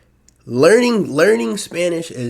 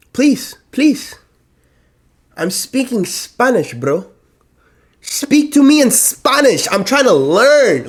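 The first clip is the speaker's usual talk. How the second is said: high, whiny, drawn-out begging; pleading; 10 semitones higher, 6 dB louder, slower than usual. Retold or imitated. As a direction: beg them, voice high and strained. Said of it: "It's like".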